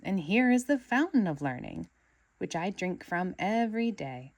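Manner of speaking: loud, grand tour guide; proud devoted student; proud awe. Acted. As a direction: present it like a treasure. SpongeBob awed tour.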